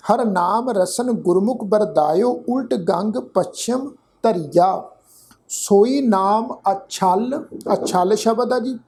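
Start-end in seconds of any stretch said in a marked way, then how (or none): 0.1-7.4 slow, measured verse recitation; slow sacred verse, word by word; scripture recitation. Shown as a demonstration. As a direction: recite deliberately, drawing out the words.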